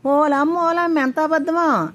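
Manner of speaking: high, slow outraged scoff; scoffing disbelief. Acted. Satyavathi scoffs at the old woman's claim, high and slow outrage. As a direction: drag out her disbelief at the lie.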